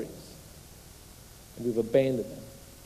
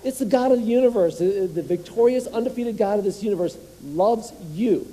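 higher and louder, building conviction; fired-up preaching; 6 semitones higher, 4 dB louder than usual. Real, not acted. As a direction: lift the whole room with it. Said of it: "let's say it with conviction".

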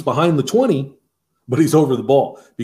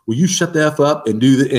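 retold angry outburst; 4 semitones higher than usual. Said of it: "unloaded on him".

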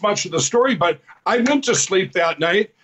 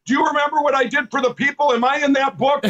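higher, quick, laughing through it; the old cop asking, chuckling; laughing cop quote; 7 semitones higher, faster than usual. Retold or imitated. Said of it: "And he goes".

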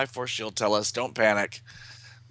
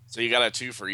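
rough, gravelly voice; faster than usual. Real, not acted. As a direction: talk through a gravelly throat. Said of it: "I sound really gravelly".

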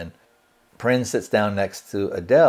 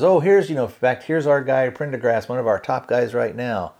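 showy introduction; 4 semitones higher than usual. Retold or imitated. Captain showing off Prin at press conference.

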